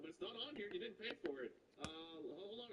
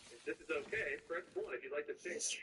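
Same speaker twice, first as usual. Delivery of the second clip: automated voice; 2 semitones lower than usual. Retold or imitated. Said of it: "automated voice thing".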